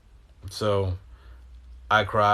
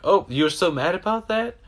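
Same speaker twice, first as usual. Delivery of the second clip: high, taunting sneer at his anger; mocking voice; 10 semitones higher, 4 dB louder than usual. The being taunts him about his anger, high mock sneer. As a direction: needle him in a much higher mocking voice. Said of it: "And that's why it's like".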